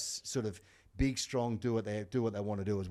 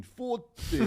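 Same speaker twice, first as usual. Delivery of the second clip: mock counting jeer; 14 semitones higher, 5 dB louder than usual. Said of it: "front row going".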